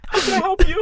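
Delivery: high, bright customer-service line; mock cheery helper. Playing a chipper clerk at the car window, high. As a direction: chirp it like a clerk.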